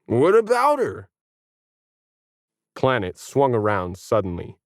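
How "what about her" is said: much higher, challenging; high sharp retort; sharp dog voice. Acted. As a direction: whip round and challenge. Planet swings around.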